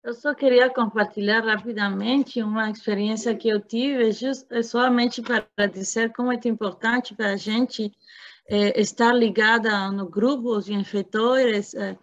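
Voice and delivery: talking with a numb mouth; numb from the dentist. Real, not acted. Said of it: "eu tenho toda a minha boca anestesiada".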